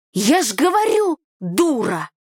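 high, loud start dropping onto the insult; exasperated insult. A narrator's reading. Brother to his frightened sister, exasperated. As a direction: throw it at her in exasperation.

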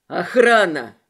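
shouting for the guards in panic; frantic yell. Acted. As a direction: yell it at the top of the lungs. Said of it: "с истошным воплем".

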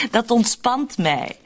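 slow, amused laugh through the words; slow chuckling reply. Acted. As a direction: laugh it off while teasing. Teasing echo of her words.

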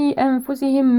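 nasalise before the f in أنفسهم without a clear n; hidden noon. Shown as a demonstration. Tajweed teacher demonstrating ikhfa, hummed n in أنفسهم. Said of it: "نون مخفاة عند حرف الفاء".

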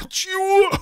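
strained high wheeze while choking; wheezed. A narrator's reading. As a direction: croak it out between coughs. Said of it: "прохрипел он".

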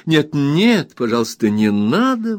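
high pleading protest; high begging protest from the wife; wife's exclamation. A narrator's reading. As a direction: beg him to stop, up high. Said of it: "воскликнула Дора".

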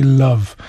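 love with a short uh, like "luv"; British pronunciation. Shown as a demonstration. Teacher giving the British model, love with a short uh. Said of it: "if you want British spelling, well, pronunciation".

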